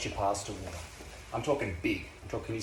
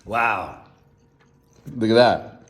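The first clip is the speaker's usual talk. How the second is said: much louder delighted call; amazed exclaim; 10 dB louder, slower than usual. Real, not acted. Cook showing the finished pasta to viewers, loudly delighted. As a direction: show off the dish with a big excited shout.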